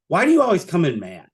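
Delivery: mock motherly reproach without yelling; motherly scolding. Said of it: "just motherly kind of looks at me".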